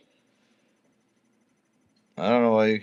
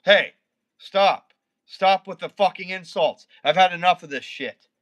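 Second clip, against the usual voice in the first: angry scolding; 3 semitones higher than usual. Real, not acted. Streamer scolding insulting viewer.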